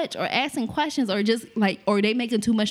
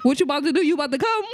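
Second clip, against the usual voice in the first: loud interrupting voice; 10 semitones higher, faster than usual. Retold or imitated. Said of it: "talking real loud on your ear".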